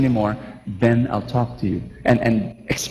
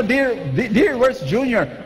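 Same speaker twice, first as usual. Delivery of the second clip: husband calling for wife; 8 semitones higher than usual. Pretend. Husband asks about the child.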